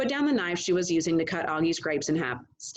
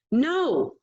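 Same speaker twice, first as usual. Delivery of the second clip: a firm, higher, louder no; 8 semitones higher, 4 dB louder than usual. A narrator's reading. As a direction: shut it down firmly. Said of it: "I said firmly".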